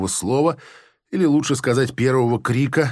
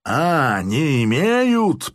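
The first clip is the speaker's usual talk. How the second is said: two tones lower; much slower than usual. A narrator's reading. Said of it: "проговорил он двумя тонами ниже".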